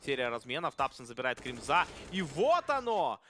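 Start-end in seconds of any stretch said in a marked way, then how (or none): 2.1-3.2 slow, louder triumphant cry; triumphant call. Real, not acted. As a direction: land the round win. Caster celebrates round win.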